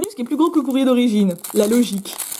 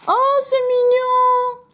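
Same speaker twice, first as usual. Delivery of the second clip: delighted coo; 12 semitones higher, much slower than usual. Real, not acted. Delighted by a cute gift.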